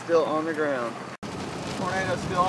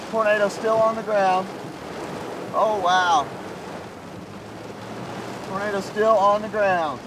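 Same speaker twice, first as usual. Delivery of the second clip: raised, urgent live report; excited shouting; 4 semitones higher than usual. Real, not acted. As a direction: call it out over the storm. Tornado passing, still shouting report.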